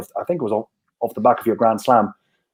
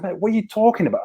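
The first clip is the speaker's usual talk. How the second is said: higher, fast, baffled reply; 7 semitones higher, 3 dB quieter, faster than usual. Retold or imitated. Baffled reply to Brownie's accusation, fast and high. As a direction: rattle it off in disbelief.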